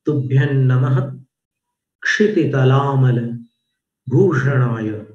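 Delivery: "नमः" ends on a breathy released visarga, "क्षिति" with a clear retroflex क्ष; careful recitation. Shown as a demonstration. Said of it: "विसर्ग में विसर्जन करना अपनी आवाज का".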